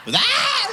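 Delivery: high laughing yelp. Real, not acted.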